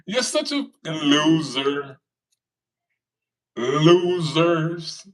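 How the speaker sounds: drawn-out mocking insult; slow, taunting sneer. Real, not acted. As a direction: drag it out to rub it in. Taunting commenters.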